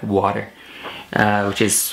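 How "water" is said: "water" with the T softened to a D. Shown as a demonstration. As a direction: say "water" American-style, as wah-der. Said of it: "pronounce the T in water like a D".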